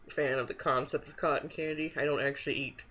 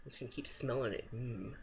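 savouring a spoonful; speaking while eating ice cream; 3 semitones lower, 10 dB quieter than usual. Real, not acted. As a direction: mouth partly full. Seen 0: Bite taken at -1.0; lips pressed as if savouring during the words.

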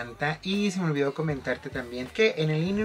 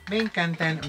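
"Me encantan" again, higher and louder, gushing; gushing repeat; 4 semitones higher, 5 dB louder than usual. Real, not acted. Vlogger gushing to viewers about both highlighters, higher and louder. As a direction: burst out with "Me encantan" the second time. Repeating her praise of products.

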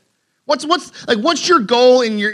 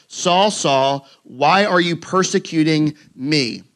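voice from heaven; 4 semitones lower, much slower than usual. Acted. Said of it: "I heard a voice saying".

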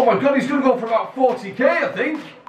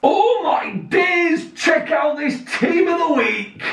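excited shout; 5 semitones higher than usual. Real, not acted. Excited opening of pack video.

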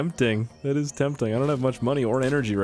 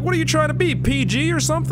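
mock comeback. Gamer mocks back at driver.

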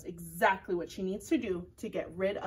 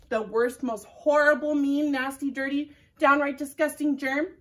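louder, punchy storyteller build; dramatic build; 3 semitones higher, 6 dB louder than usual. Acted. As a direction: ham up the worst germ. Building to worst germ.

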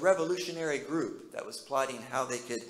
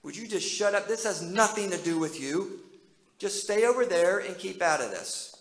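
a louder, irritated shut up; mock telling off; 3 semitones higher, 6 dB louder than usual. Crowd in front telling the beggar to shut up, annoyed and louder. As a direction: brush him off with an annoyed snap. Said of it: "telling him to shut up and sit down".

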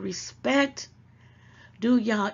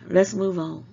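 a louder, firm "Let's move on", falling at the end; 2 semitones lower, 6 dB louder than usual. Real, not acted. Moving her viewers off the subject, firm and louder. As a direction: cut the topic off firmly. Repeats the line to change topic.

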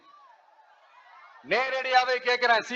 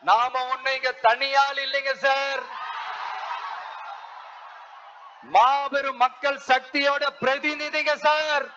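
rising rally cry. Real, not acted. Rally speech, building declaration.

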